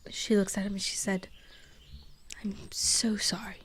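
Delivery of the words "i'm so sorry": hushed, tender consoling; gentle apology. Acted. She hugs the crying goblin, tender hushed apology.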